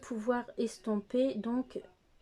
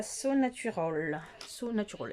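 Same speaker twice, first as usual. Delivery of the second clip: English shade name with a French accent; French accent on "So Natural". Real, not acted. Naming the shade for viewers, French accent. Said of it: "excusez-moi de mon accent".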